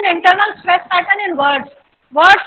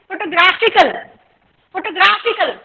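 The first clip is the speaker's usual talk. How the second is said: photographical as fo-to-GRAF-ical; stress on graph; much slower than usual. Shown as a demonstration. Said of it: "stress कहाँ आ गया". (photographical में ग्राफ पर ज़ोर)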